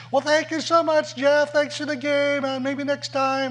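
put-on high, bright voice of a little old lady; thanking her partner in a high old-lady voice; sweet old lady. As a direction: chirp it like a tiny senior lady.

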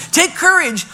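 loud, high mock cheer; mocking encouragement. Fickle crowd cheering on the blind man, mocking. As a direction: parody the crowd's hearty encouragement, incredulously. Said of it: "you're telling those two guys".

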